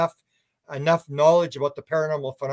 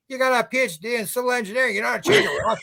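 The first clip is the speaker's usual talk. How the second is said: laughing teasing; 8 semitones higher, faster than usual. Retold or imitated. Teasing a friend in retold story.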